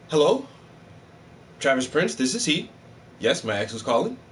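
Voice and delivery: a touch of polished phone manner, lightly voiced; professional phone voice. Taking a call in his very professional voice, lightly done. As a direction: answer like a polite business line. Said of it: "in my very professional voice".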